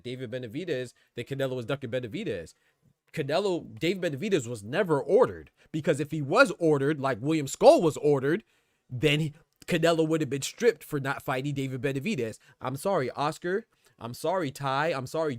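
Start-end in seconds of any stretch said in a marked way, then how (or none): 3.1-12.4 getting louder as the point lands; heated rising rant. Real, not acted. Boxing streamer arguing with his chat, louder and louder. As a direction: press the argument harder, voice climbing in volume.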